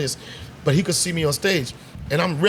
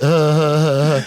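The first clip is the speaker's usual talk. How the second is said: held-back laugh; 5 dB louder, slower than usual. Retold or imitated. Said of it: "started laughing at me the way you laugh".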